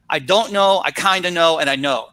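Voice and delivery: name each pile clearly, stressing "don't", "kinda" and "know"; three pile labels. Shown as a demonstration. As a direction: label the three stacks for the class, one by one. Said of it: "into three stacks".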